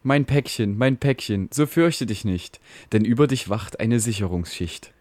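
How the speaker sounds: lightly voiced fatherly router, calm and reassuring; a hint of a caring father in a mock ballad; soothing router. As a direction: comfort the frightened little packet in rhyme.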